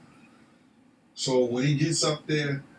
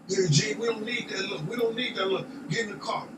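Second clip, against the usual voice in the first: imitating Puff; 5 semitones higher than usual. Puff voiced ordering him in.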